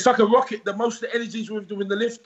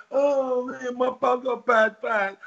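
whiny complaining; 3 semitones higher, slower than usual. Retold or imitated. Mocking a weak fighter.

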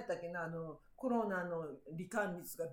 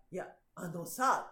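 slow, measured retort; calm pushback; 4 semitones lower, slower than usual. Retold or imitated. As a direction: slowly start setting him straight. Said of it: "って".

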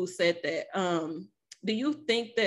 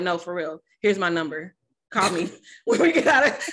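pushy and laughing; 5 dB louder than usual. Retold or imitated. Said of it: "I was like".

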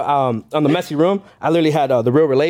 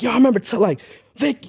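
retold self-talk; 7 semitones higher than usual. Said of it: "I was talking to myself".

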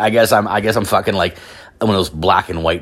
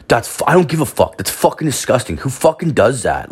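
higher-pitched mock outrage; disgusted complaint; 6 semitones higher than usual. Stranger griping behind him at the till, mock disgust. Overheard disgusted customer, acted.

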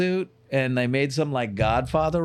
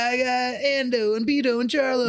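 mock hearty shout; 8 semitones higher, slower than usual. Dad calling his brother on the car phone, mock hearty shout. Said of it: "he'd be like".

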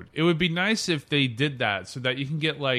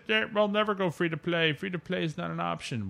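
mock company statement; 6 semitones higher than usual. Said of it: "this is after they said".

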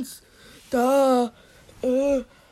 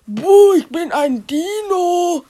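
higher, drawn-out mock-spooky boo; playful dino scare; 4 semitones higher, 3 dB louder than usual. Child hiding in skeleton, playful mock scare. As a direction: lightly play a spooky dinosaur, stretching the words.

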